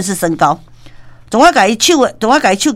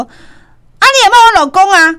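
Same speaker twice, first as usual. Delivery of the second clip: high, loud, slow indignant wife voice; wife demanding an answer, indignant; 10 semitones higher, 5 dB louder, slower than usual. Retold or imitated. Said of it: "迄个太太嘛，对咱讲话讲". (太太不满地质问)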